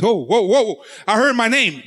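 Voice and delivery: roused, rising call to the troops; heavenly commander. Acted. Someone in heaven hears their name and rallies the angels, roused and urgent. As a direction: build from surprise to an eager rallying cry. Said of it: "in heaven says".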